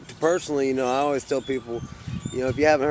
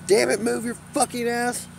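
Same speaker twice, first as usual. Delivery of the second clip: mock angry snap; 9 semitones higher than usual. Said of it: "that woman then spits out".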